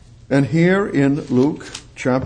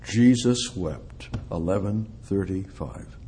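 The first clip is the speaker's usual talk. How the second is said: slow recitation; 5 semitones lower, 3 dB quieter than usual. Shown as a demonstration. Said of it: "For you who have trouble memorizing".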